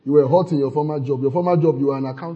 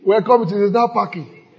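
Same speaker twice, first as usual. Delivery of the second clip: apologetic servers; 7 semitones higher, 6 dB louder than usual. Retold or imitated. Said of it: "He said, that's how they will say".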